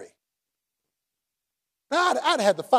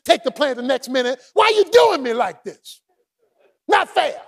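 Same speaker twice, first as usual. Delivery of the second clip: self-pitying whine. Acted. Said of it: "He said".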